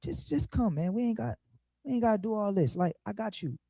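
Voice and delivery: soft, coaxing hush; king begging the son softly, hushed and coaxing; hushed pleading king. Retold or imitated. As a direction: plead with him quietly, like a secret deal. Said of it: "he like".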